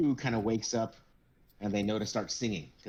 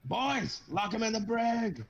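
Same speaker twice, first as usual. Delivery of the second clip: captain's order; 13 semitones higher, slower than usual. Acted. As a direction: call the crew to lock him up.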